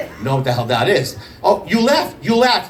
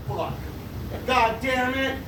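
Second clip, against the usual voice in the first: soft, higher-pitched mock dismay; muttered cursing; 9 semitones higher, 8 dB quieter, slower than usual. Mom repacking the embarrassing package, quietly cursing. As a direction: imitate a mom swearing under her breath.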